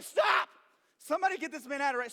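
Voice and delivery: hammed-up shout in church at the man carving apples; mock shout. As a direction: yell for someone to haul him out, playing it up. Outburst at apple carver in church.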